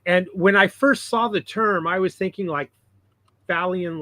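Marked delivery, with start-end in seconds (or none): 3.5-4.0 "Phalian" with a long A, FAIL-ian; pronounced like fail. Shown as a demonstration. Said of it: "like fail".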